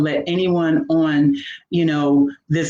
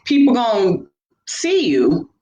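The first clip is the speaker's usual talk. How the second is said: self-doubt talk; 5 semitones higher than usual. Retold or imitated. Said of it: "But I was like".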